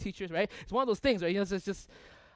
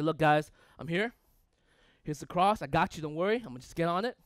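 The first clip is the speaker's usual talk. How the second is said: casual saviour; 2 semitones lower than usual. Acted. Saviour casually telling the guys he's got this, offhand. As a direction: toss it off as no big deal.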